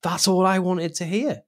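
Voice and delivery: real touch of tearfulness; tearing up. Real, not acted. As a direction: let the voice thin as tears come. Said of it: "tearing up now talking about it".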